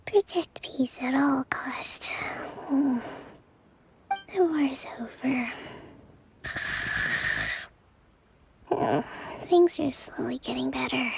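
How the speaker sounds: sleep talking. Acted. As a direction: murmur it fast asleep. Kokomi talking in her sleep.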